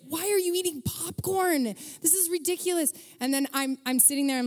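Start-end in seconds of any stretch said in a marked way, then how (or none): 0.1-2.9 irritated. Retold or imitated. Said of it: "you know how you're so irritated?".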